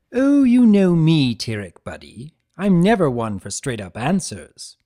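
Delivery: loud, high, slowed showman hello; cheery trickster greeting. Acted. Chaos spirit gleefully greeting his betrayer, loud and high. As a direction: greet him like a long-lost pal, overdone. Discord voiced in story.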